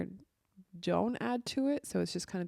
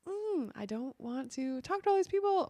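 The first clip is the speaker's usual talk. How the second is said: raised pitch, fed-up whining; overwhelmed whine; 6 semitones higher than usual. Retold or imitated. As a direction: sound swamped and done with it. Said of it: "I get overwhelmed and I'm like".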